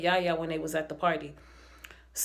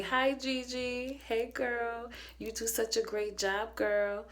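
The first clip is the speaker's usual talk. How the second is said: softer, slow gushing hello to a favorite; soft fond greeting; 3 semitones higher, 6 dB quieter, slower than usual. Real, not acted. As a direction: coo it like a proud fan. Greeting her favorite character fondly.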